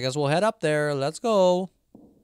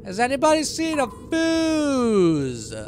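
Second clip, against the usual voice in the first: higher, slow pleading call; plaintive call; 10 semitones higher, 6 dB louder, slower than usual. Real, not acted. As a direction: call out helplessly for help. Calls out to chat for help.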